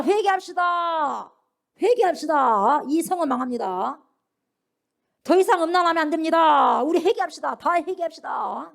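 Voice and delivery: high, loud, slow calling out; prophet's outcry. Retold or imitated. Old man crying to the city to repent, loud and slow. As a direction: cry out warnings to the whole city. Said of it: "뭐라고 외쳤냐".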